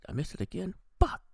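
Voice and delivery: high-pitched disbelief, then a swear; mock frustrated outburst. Mindy finding she missed the party again, high exasperated disbelief.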